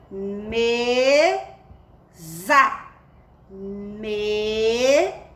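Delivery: "mesa" separado em "meee... za"; leitura silabada. Shown as a demonstration. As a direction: leia "mesa" alongando o "me", com Z vibrante. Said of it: "Formou a palavrinha". ("mesa" silabado, com som de Z)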